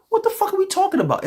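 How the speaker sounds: very high outraged what the fuck; incredulous. Real, not acted. Ranting about hypocrisy, high-pitched incredulity. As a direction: squeak it in disbelief.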